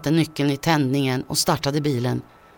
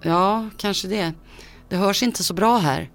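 thin, shaky voice; 4 semitones higher than usual. Acted. Frightened son to his father on the phone, thin and shaky. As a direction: let the voice thin out and waver, barely holding. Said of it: "Min röst lät tunn och nästan darrig".

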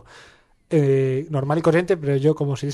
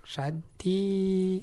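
imitación; 4 semitones higher, 8 dB quieter than usual. Shown as a demonstration. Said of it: "hacernos un celebrities de Santi".

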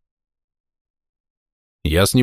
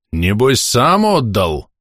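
slow, higher menacing suspicion; 4 semitones higher, much slower than usual. Acted. Old soldier suspiciously accuses the narrator, slow and menacing. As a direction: sneer the accusation. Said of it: "грозно спросил Прохорович".

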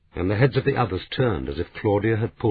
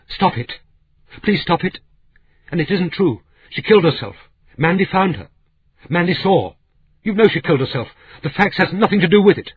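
much higher and louder, near hysterical; distraught cry; 11 semitones higher, 5 dB louder than usual. Acted. Blackie leaping up to stop the quarrel, distraught shrill outcry. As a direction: scream at them to stop, frantic and high. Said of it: "She leapt up and cried".

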